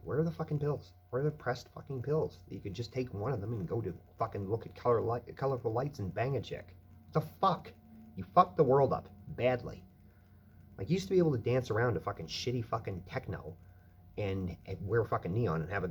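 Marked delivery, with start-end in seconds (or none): 0.0-11.7 high, loud furious outburst; angry rant. Real, not acted. Ranting about pressed pills vanishing, furious shout. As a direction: yell it at whoever ruined the scene.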